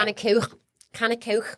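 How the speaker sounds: put-on Liverpool accent with throaty k; put-on Liverpudlian; Scouse accent. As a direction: demonstrate Scouse on a catchphrase.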